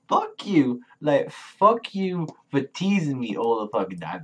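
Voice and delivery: high, exasperated outburst; exasperated anger. Real, not acted. Fan venting at creators for teasing him, exasperated.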